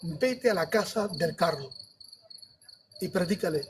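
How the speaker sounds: low, slow and restrained divine voice; voz del Espíritu Santo. Retold or imitated. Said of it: "me dice el Espíritu Santo". (voz del Espíritu Santo, grave, lenta y contenida)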